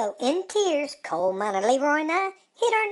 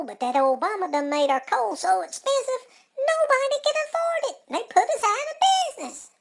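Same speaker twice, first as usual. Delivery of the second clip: much higher, whiny hammed-up grief; mock lament; 10 semitones higher than usual. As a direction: play the broke miner's fake sob story. Coal miner laments lost business.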